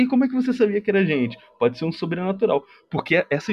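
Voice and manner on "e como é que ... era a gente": fast, higher, pointed "como é que você sabia"; pointed hint. Retold or imitated. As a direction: rush it out higher to drop the hint. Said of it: "dá um indício".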